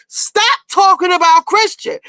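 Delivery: slow, high retold call. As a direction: order it from the top of the stairs, drawn out. Jen calling from top of steps.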